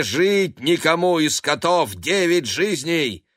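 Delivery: high, loud chant ending in a shouted meow; loud spell ending in yowl. Acted. Black cat finishing his curse on the cats, loud high chant. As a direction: build the curse to a screaming meow.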